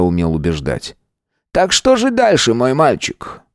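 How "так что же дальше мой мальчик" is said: higher, mocking question to the boy; mocking taunt. A narrator's reading. Georg taunts Nick mockingly. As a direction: toy with him.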